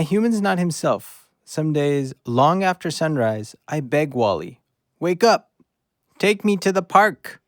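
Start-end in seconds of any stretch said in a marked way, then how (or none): 5.0-7.4 begging. Acted. Dog begging sleeping owner.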